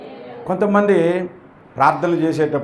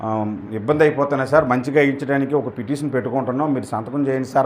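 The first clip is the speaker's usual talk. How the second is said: humble request; 5 semitones lower, 3 dB quieter than usual. Retold or imitated. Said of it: "వినయంతో అడగాలి".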